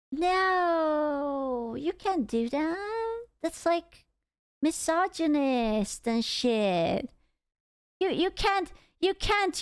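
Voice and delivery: sarcastic. Pretend. Mocking the anti-logic argument.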